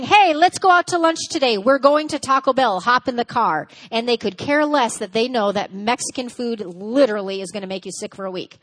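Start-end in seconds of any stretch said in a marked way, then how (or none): 0.0-3.7 pushy, raised pitch, deciding for everyone; bossy aggressive partner. Acted. Aggressive spouse announcing lunch plans, bossy and pushy. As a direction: bark the plan, no room to argue. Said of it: "An aggressive communicator's mind is saying".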